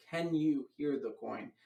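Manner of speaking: "Can you hear the coin" with emphasis on "you"; emphasized question. Shown as a demonstration. Magician showing the question to learners, with emphasis. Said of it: "I put the emphasis on that".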